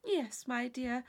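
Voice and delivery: slow, unruffled calm; untroubled, serene reply. Acted. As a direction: say it with perfect composure. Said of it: "with perfect serenity".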